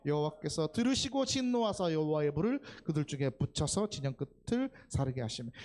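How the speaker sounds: loud congregational scripture reading. Real, not acted. Preacher reads the verse to the congregation, loud scripture reading. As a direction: read the verse out forcefully to the room.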